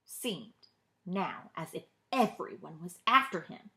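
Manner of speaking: plain reading voice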